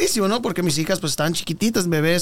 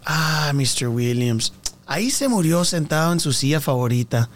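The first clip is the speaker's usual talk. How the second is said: imitated parking attendant; 2 semitones lower, slower than usual. Attendant reveals the death.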